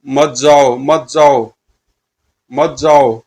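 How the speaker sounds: insistent, chant-like fiend warning; mildly menacing monster command. Acted. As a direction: block his way with each repeated command. Fiends repeat their warning.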